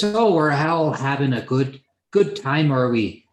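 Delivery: put-on captain slipping into a Sean Connery accent; accidental Sean Connery. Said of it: "That's the wrong accent".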